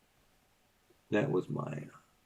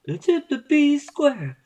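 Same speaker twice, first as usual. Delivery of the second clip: squeaky high shout; 9 dB louder than usual. Pretend. High-pitched shout, game play.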